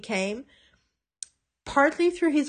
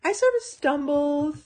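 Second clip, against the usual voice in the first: quoting Willow; 10 semitones higher, 4 dB louder than usual. Retold or imitated. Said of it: "And she's like".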